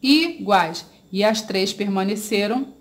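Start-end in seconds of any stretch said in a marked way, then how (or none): 0.0-0.9 "iguais" in two beats, i... guais; teacher separating "iguais" syllable by syllable; split into syllables. Shown as a demonstration. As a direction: pause after the i of "iguais". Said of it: "Eu fiz a separação da palavra".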